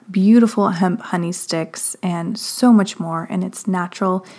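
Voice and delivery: lively podcast ad read with varied intonation; sponsor read. Acted. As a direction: pitch the sponsors' products to listeners. Reads the sponsor messages.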